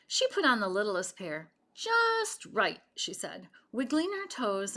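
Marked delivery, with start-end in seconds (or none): 1.7-2.8 high, pleased little cry; high happy girl voice; delighted. A narrator's reading. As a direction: sing it out happily, the boots fit. Boot fits perfectly.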